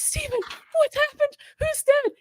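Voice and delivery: high, anxious pleading; near tears. Retold or imitated. Mother on the phone to her husband, high near-tearful plea. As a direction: beg for the news, close to tears. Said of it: "She's damn near in tears".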